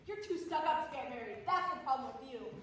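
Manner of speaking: brisk indignant scold; scolding passenger. Acted. Fussy lady scolds man on train, brisk indignant. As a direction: tell them off, fast and sharp.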